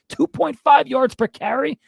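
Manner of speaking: you can't believe the number; outraged disbelief, question rising high; incredulous. Real, not acted. Repeats stat in disbelief.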